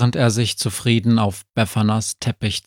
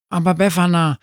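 protesting dog; 8 semitones higher, much faster than usual. A narrator's reading. Sami protests at bedtime.

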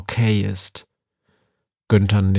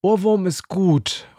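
higher, eager insistence; Befana calling out; 7 semitones higher, much slower than usual. A narrator's reading. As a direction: insist eagerly, the idea is good. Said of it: "ruft Befana".

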